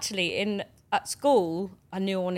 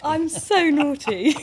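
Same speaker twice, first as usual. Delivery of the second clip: laughing; 9 semitones higher, 8 dB louder, slower than usual. Pretend. Mock confession, laughing.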